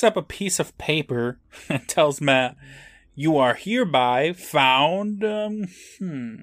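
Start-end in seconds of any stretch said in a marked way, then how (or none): 3.1-6.3 slow build to a high loud GUILTY; dramatic verdict. Acted. Judge reading the verdict to Matt, slow then shouted. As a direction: draw out then explode the verdict.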